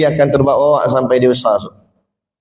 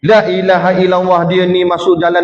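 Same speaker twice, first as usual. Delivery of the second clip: angry dhikr exclamation; 4 semitones higher than usual. Retold or imitated. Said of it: "Sebutlah nama Allah".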